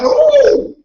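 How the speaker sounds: sudden high startled ooh; high startled cry; spooked yelp. Retold or imitated. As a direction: yelp like something jumped out at you. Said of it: "It might make you yell out".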